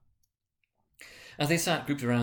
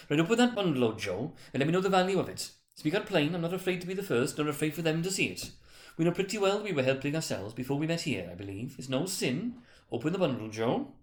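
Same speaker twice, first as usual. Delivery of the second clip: brazen woman; 6 semitones higher than usual. Acted. Woman ordering Joe.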